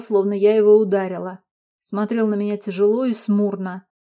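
plain reading voice

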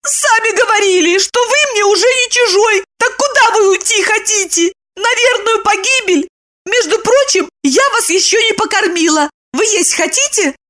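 high, fussy woman's voice; Lipochka, fussing. A narrator's reading. Lipochka fusses over Roman's meal. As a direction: scold and mother him at once.

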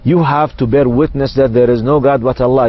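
slow, cool and unhurried English; calm and composed. Retold or imitated. Doctor calmly answers the prisoner's question, slow. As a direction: explain it with total calm. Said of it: "فأجبته بكل برود وراحة أعصاب".

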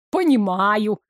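plain reading voice

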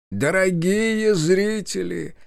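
slow, grand welcome to the audience; solemn address. Acted. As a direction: open the show ceremoniously. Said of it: "торжественно начал Ильич".

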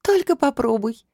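slow, high mock threat; stern warning. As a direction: drag out the warning slowly. Warning retort to a joke.

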